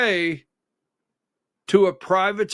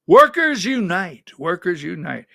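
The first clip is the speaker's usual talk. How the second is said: mock rally cry; 4 dB louder than usual.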